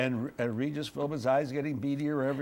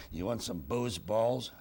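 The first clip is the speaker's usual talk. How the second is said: lightly imitated mean caller, low and slow; slow, low offer from a shady caller; 5 semitones lower, slower than usual. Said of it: "the meanest voice I ever heard".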